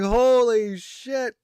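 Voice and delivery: long, drawn-out high, loud amazement; hugely amazed exclamation, slow and rising; losing it. Retold or imitated. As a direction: stretch both words in a soaring, stunned yell. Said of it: "I lost it".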